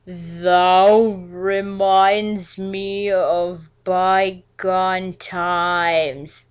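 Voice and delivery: slow, drawn-out mock-archaic vampire suitor; hammed-up old-world charmer, dragging every word; Edward's courtly voice. Edward's voice again.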